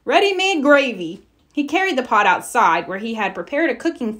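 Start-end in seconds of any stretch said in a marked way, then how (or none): 0.1-1.2 cheerful. A narrator's reading. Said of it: "he said cheerfully".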